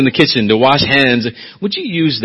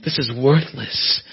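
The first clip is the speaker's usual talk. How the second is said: much softer, slow, grave judgement; God's stern verdict; 10 dB quieter than usual. Retold or imitated. God rejecting human works, soft and grave. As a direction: hand down the verdict quietly. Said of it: "God throws it back ... says".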